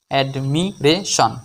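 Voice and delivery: slow, in four separate parts; measured teaching breakdown; syllable by syllable. Shown as a demonstration. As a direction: split the word into even syllables. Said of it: "চারটি অংশে ভাঙতে পারবো".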